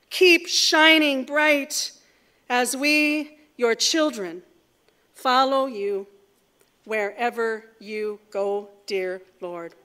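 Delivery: earnest spoken prayer. Real, not acted. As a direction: lead the church in prayer. Leads the congregation in prayer.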